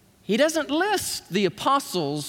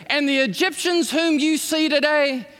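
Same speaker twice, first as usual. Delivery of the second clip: God's promise; 4 semitones higher than usual. Retold or imitated. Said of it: "watch what he says".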